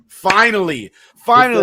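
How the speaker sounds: high, loud cry of relief, rising on the second finally; exasperated fan yelling finally; excited shout. Retold or imitated. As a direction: yell it like the moment has come at last. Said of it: "And I was like".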